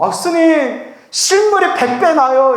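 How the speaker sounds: high, gushing compliment; butter up the monk as an admiring fan; flattering fan. Acted. (높은 톤으로 치켜세우는 팬 말투)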